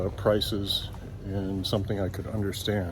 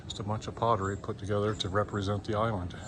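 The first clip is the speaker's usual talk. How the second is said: talking around a stick in mouth. Real, not acted. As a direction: mumble past a stick between teeth. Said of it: "talking with a stick in my mouth".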